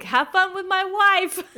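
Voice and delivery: high, drawn-out mock send-off; imitated movie line. Quoting him to the co-host, comic imitation. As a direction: push it up high and stretch it, laughing. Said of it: "when he's like".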